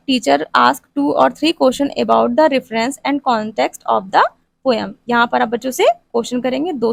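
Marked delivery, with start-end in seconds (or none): 0.1-4.9 slow, word-by-word dictation pace; dictating notes to a class. Shown as a demonstration. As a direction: read it out slowly so students can write it down. Dictating lesson plan text.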